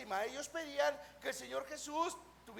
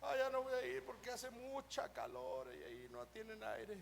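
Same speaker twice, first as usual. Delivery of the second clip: mimicked excuse-makers; 2 semitones lower, 7 dB quieter than usual.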